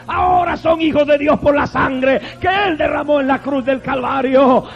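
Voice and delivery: a rousing, rising sermon voice with shouted peaks; joyful preaching. Real, not acted. Preacher proclaiming to the congregation with rousing joy. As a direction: preach it out with rejoicing.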